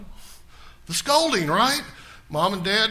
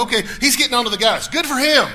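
higher and louder, quick approving voice; cheering reader; 6 semitones higher, 6 dB louder than usual. Retold or imitated. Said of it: "you go".

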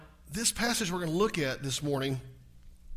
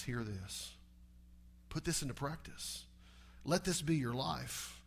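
softer, lower and slow; mild hushed Moses; 4 semitones lower, 7 dB quieter than usual. Retold or imitated. Moses back from the mountain, speaking softly. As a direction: say it gently, like a solemn charge. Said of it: "he comes back and says".

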